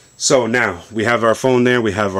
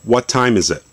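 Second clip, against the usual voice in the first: voice command; 3 semitones higher than usual. Shown as a demonstration. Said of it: "So let's do, uh, something simple".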